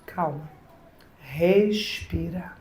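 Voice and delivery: soft hushed calming; hushed and slow, calming a frightened person; soothing whisper. Acted. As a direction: breathe it out gently to calm them. Calming someone in crisis.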